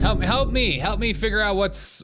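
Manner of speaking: high-pitched sarcastic plea for help; mock pleading. Mock plea to understand the claims.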